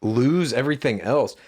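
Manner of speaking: rising, disbelieving echo; puzzled repeat. Real, not acted. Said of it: "that's fucking weird".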